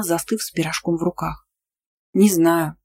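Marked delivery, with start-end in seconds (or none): none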